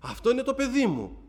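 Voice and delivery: high, rising cry of recognition; retold mother's alarm. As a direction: act out a mother realising it's her child. Mother recognises her injured child. (αναπαράσταση μητέρας σε πανικό, ψηλή φωνή)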